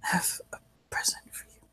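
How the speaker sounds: hushed whisper, very soft. Acted. Drugged patient offers a present, whispering. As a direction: breathe it out in a secretive whisper. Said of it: "He whispers".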